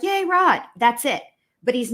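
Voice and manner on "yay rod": high squealing fan cheer; mock cheer. Mimicking fans cheering for Rod, high and giddy.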